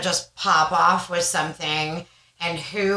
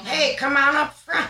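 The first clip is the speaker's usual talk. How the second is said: imagined preacher calling out; 9 semitones higher than usual. Pretend.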